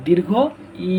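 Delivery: "দীর্ঘ ই" with a long, stretched "ই"; drawn-out vowel. Shown as a demonstration. Teacher shows that it needs stretching, long-held "ই" in "দীর্ঘ ই". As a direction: pause after "দীর্ঘ" and draw out "ই". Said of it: "এটা একটু টান হবে".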